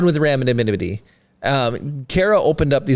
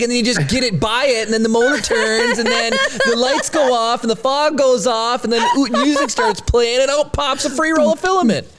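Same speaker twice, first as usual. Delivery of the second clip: mock-excited sales pitch, rising higher; excited buildup; 7 semitones higher than usual. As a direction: pitch climbing higher with each step of the fantasy. Gleeful fantasy of gumball machine.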